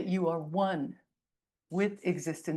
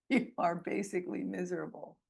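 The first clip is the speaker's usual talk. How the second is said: chuckling. Real, not acted. Chuckles at own blunt remark.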